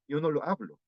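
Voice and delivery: yo no lo hablo quick and linked; fluent native-like yo no lo hablo; correct fluent version. Shown as a demonstration. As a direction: run yo no lo hablo together fast. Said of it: "Debería ser".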